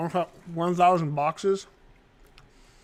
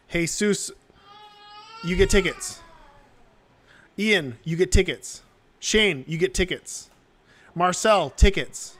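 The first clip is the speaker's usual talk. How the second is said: cameo voice; 2 semitones higher, 5 dB louder, slower than usual. Retold or imitated. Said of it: "I'll make a cameo where I just say".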